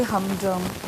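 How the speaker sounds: "हम ड्रम" slow, with equal weight on both syllables; both syllables stressed. Shown as a demonstration. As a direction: stress "हम" and "ड्रम" alike, unhurried. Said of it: "ये दोनों ही क्या हैं".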